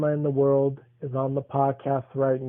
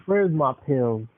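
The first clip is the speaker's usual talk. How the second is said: slower repeat for grandma; slower than usual. Real, not acted. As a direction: repeat it slowly so grandma hears.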